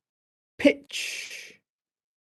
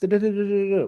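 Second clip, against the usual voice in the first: quick, louder da da burst; fast demo; 8 semitones higher, 5 dB louder, much faster than usual. Shown as a demonstration. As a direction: fire off the da da quickly. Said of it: "if you go very fast".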